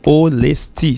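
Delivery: "Honesty" broken into three clear beats; measured, split-up "Honesty"; three separate syllables. Shown as a demonstration. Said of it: "ça fait trois syllabes".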